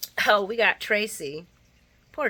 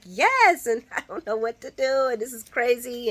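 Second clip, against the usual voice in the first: high, loud panicky yes; frantic; 6 semitones higher, 7 dB louder than usual. Retold or imitated. Nina telling Ava about the blackmail: high loud panic. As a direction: blurt it out in a panic.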